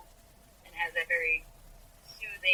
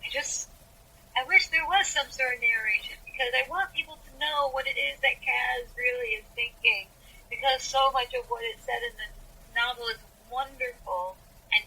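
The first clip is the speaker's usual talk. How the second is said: higher-pitched, mildly pleading fan voice; wistful fans; 5 semitones higher than usual. Retold or imitated. Fans of the book series wanting narration, mildly pleading. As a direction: voice a fan earnestly wishing for more. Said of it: "some fans are like".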